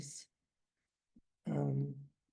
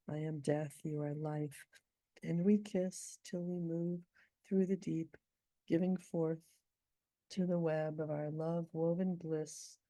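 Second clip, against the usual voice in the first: measured, unhurried poetry reading; poem reading. Acted. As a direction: read it like your own poem, savouring each line. Reads her poem aloud.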